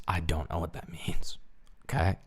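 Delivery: soft breathy whisper, no voice. Shown as a demonstration. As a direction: whisper it like a secret. Same line repeated as whisper.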